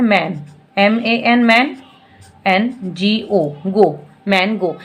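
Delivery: slow split into man and go; spelling in chunks. Shown as a demonstration. Teacher breaking mango into two parts. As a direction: break the word in two, slowly. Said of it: "दो में हम इसको break कर रहे हैं".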